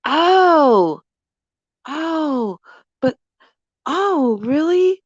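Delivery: flustered, rising oh oh really; mock surprise. Catcaller caught off guard when husband steps in, mock flustered. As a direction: play him caught off guard and stammering. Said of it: "catcaller's reaction".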